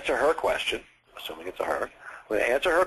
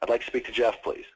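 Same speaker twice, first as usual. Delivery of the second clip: matter-of-fact, firm request; forward and firm. Shown as a demonstration. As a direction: ask as if you expect to get through. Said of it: "gonna be forward and firm".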